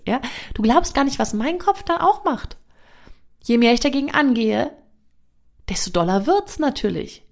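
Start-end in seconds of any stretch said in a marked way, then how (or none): 1.2-2.6 high, slow, teasing voice; mock squeaky head voice. Mocking what her own head does, higher and slower. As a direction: mimic your nagging head, high and slow.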